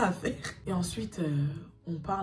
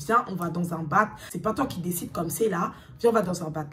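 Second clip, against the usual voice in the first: authoritative. Retold or imitated. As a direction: order him to the bar, no discussion. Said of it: "j'étais en mode autoritaire". (ton autoritaire, plus fort)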